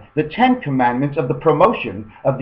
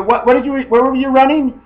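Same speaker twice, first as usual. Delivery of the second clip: high, loud stammered question; baffled questioning; 11 semitones higher, 5 dB louder than usual. Acted. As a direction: stumble into the question, pitched way up. Acting out a muddled phone call.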